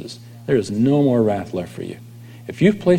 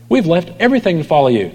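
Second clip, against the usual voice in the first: mock disciple; 6 semitones higher, faster than usual. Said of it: "disciples are still so concerned".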